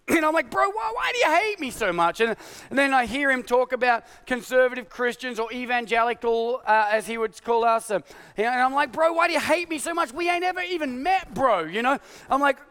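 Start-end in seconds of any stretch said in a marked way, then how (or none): 0.5-2.2 high pleading whine; exasperated plea. Retold or imitated. Pastor pleading with the president, high baffled whine. 8.9-11.6 high pleading whine; exasperated plea. Retold or imitated. Pastor pleading with the president, high baffled whine.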